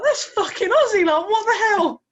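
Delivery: high, loud star-struck outburst; freaking out. Pretend. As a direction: act out losing it at a celebrity sighting. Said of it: "you'd freak the fuck out".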